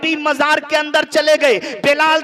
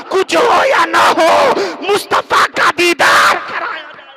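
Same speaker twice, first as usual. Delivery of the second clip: rising preaching climax. Acted. Sermon builds to climax.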